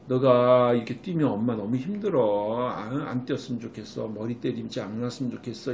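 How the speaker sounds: gentle hug talk. Shown as a demonstration. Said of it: "안아주면서 이야기를 하세요".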